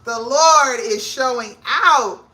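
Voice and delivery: slow, loud, church-style praise; praising exclamation. Retold or imitated. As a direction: testify like in church. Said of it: "I said".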